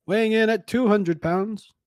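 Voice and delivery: slow, booming ring announcer voice; stadium announcer. Acted. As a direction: call out the fighter like at a WWE ring. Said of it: "like a stadium announcer".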